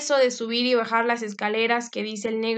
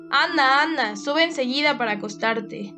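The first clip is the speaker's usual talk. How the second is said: urging command; 4 dB louder than usual. Acted. Father hurries daughter off.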